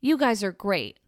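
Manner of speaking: a hint of a gushing fan, slowing at the end; light impression of an eager listener; mock gushing caller. Vlogger imitating Cheryl praising the station, lightly voiced. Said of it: "And she's like".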